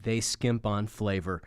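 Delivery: measured commercial announcer delivery; mock ad read. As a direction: read it as an earnest sponsor spot.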